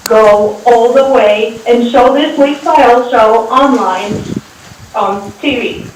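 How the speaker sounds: Russian accent. Shown as a demonstration. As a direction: speak English with a Russian accent. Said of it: "I can add my Russian accent".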